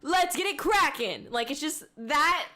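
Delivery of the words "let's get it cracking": slightly hammed-up anime dub catchphrase; mock dub tone. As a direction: imitate a punchy dub actor, higher pitched. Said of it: "that tone".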